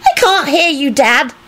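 high-pitched, haughty announcement; lofty little voice, pitched high. A narrator's reading. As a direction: inform them from a great height. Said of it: "Teddy informed the rest of the group loftily".

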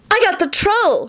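put-on very high, drawn-out girlish glee; high-pitched acted delight; shriek of delight. A narrator's reading. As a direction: squeal it in triumph, without much volume. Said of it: "Hermione shrieked with delight".

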